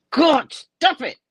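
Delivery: a whispered, grossed-out stop it; disgusted whisper. Real, not acted. Disgust at eyeball sucking.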